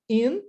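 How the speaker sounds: "In" said alone as a separate syllable; syllable before pause. Shown as a demonstration. Teacher splits influence for learners, "In" cut off by a pause. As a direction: isolate "In", then stop. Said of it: "tem uma pausa".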